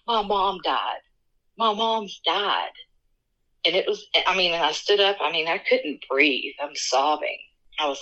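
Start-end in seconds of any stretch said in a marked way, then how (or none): 0.1-2.7 distraught. Retold or imitated. Waking from dream, distraught.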